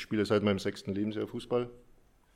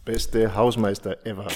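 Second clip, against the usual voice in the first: playful proud shout; 8 dB louder than usual. Real, not acted. Playful answer, loud and slow.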